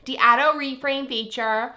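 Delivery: feature said as fitchah in a Newfoundland accent. Shown as a demonstration. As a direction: auto said as ado with a Newfoundland lilt. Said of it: "did you hear my Newfoundland accent come out".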